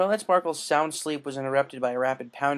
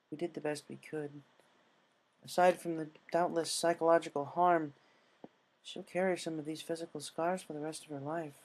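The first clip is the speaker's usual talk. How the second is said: grave nurse; 3 semitones higher than usual. Acted. Nurse reports to the friends.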